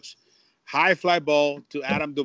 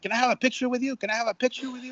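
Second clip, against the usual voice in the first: excited fan; 8 semitones higher, much faster than usual. Retold or imitated. Fans asking for a photo.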